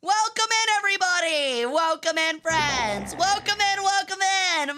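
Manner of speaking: high bubbly welcome; cute anime streamer. Acted. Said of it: "I'm an Egyptian peregrine sun goddess".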